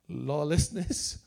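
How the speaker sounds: slow emphasis. Real, not acted. Preacher stressing key term.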